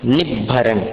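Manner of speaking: निभरन with a plain dental न, not retroflex ण; dental n demo. Shown as a demonstration. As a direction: say निभरन with न as in नमस्कार. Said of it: "यहाँ पर ण नहीं है, न है, नमस्कार का न है". (निभरन में दन्त्य न, मूर्धन्य ण नहीं)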